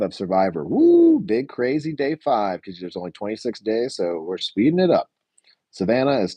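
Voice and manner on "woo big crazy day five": high "woo", then slow drawn-out words; mock hype. Hyping up day five.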